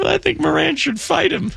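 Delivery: high, excited play-by-play call; baseball announcer voice. Retold or imitated. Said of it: "In a baseball announcer voice".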